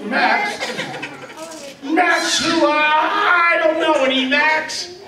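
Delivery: high, puzzled questions; puzzled girl. Acted. Anna asks the voice who Max is, puzzled. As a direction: ask who this is, baffled. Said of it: "Anna answering".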